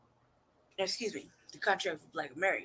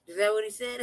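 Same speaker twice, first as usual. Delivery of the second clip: higher, louder, cracking up mid-quote; laughing retelling; 4 semitones higher, 6 dB louder than usual. Retold or imitated. Host replaying the man's comeback, laughing. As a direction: quote it through real laughter, raised voice. Cracking up over clip's reply.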